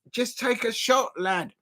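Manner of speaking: light attempt at a Scouse accent; Scouser accent. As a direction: have a go at sounding Scouse. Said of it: "I think that's the Scouser accent".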